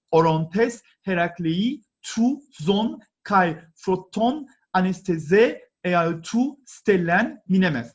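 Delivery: slow, careful read-aloud of the Greek text; reading the inscription. Shown as a demonstration. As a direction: read it out word by word, slowly. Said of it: "so let me read it".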